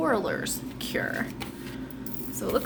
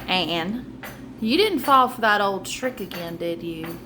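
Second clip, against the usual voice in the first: low calm voice; 3 semitones lower than usual. Acted. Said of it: "in a low, calm voice".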